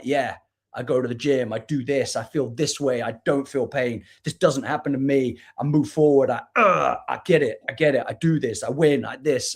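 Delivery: a hint of a gym bro reciting his creed; mock alpha male. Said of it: "wearing the alpha male mask".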